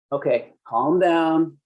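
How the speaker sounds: slow, condescending calm down; mock calm-down. Officer soothing a citizen, slow and condescending. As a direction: talk down to them like a cop. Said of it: "that's something that usually will escalate things".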